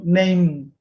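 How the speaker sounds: Name ending with lips closed on M. Shown as a demonstration. Teacher drilling Name for the class, lips closing. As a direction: let the lips meet at the end of Name. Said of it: "Con los labios chocan al final".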